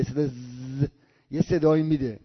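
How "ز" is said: ز as a softer, held buzzing zzz; buzzing z sound. Shown as a demonstration. Teacher isolating the letter's sound, long quiet buzzing ز. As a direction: hold the bare consonant ز like a buzz. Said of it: "اونم با صدای ز میده".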